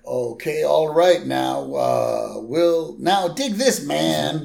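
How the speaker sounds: lightly voiced, halting hippie; drawn-out, spaced-out hippie talk. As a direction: ease into it like a hippie pitching an idea. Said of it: "we see a hippie".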